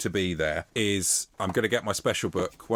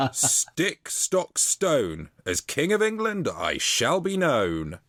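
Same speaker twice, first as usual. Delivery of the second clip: higher pitched mock proclamation, laughing; mild mock shout; 4 semitones higher, slower than usual. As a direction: proclaim it like a giddy king. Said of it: "He shouted".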